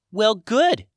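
tiny high fairy voice; squeaky, small sprite. A narrator's reading. Sprite speaks.

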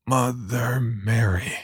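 slow hoarse croak, half nervous. Acted. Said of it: "I croaked, half nervously".

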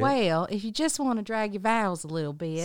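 southern accent. Shown as a demonstration. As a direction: mimic the Southern twang. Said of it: "she can do it if she hears me say it".

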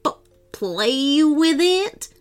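halting, very slow, choking on the words; barely able to say it; mock revolted baron; gagging. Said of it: "almost gagged as he said".

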